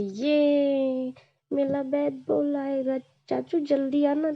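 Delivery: lightly voiced little girl, thrilled about her new bat; excited little girl. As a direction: squeal it like a happy small child.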